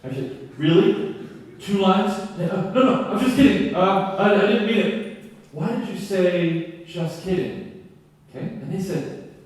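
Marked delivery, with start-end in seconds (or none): 0.6-2.4 pretend mad. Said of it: "I pretended to be mad". 2.5-5.2 sing-song mock panic, a bit louder; a flustered teacher taking it back, lilting; flustered backpedal. 5.5-7.9 mock stern. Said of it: "I pretended to be mad".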